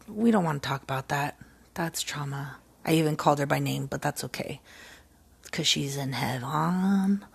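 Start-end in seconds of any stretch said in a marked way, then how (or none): 0.1-2.6 whispered aside. Real, not acted. Aside about the lost sister.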